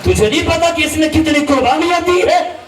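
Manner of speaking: preacher voicing a stern warning to Umar; stern rebuke. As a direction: raise the voice in righteous anger. Prophet rebukes Umar in story.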